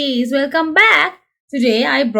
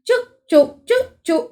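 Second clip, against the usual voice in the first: higher, playful choo-choo; George cheering choo-choo; 6 semitones higher than usual. Acted. George riding home on the train, a higher playful choo-choo. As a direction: toss it out like a cheerful toddler. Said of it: "Cheers, George".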